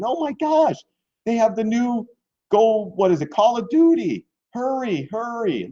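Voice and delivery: breathless excitement about the chart; excited rush. Real, not acted. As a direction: talk fast and high as if it can't wait.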